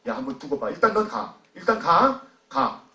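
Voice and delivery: mildly menacing dismissal, short phrases; threatening. Acted. Pharisees threatening the healed blind man, mildly menacing. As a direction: order him off with a threat. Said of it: "이러면서 바리새인들이 협박했을 겁니다".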